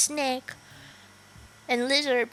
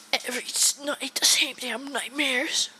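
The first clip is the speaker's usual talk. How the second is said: whispered game line. Acted. Streamer whispering a character's line to chat.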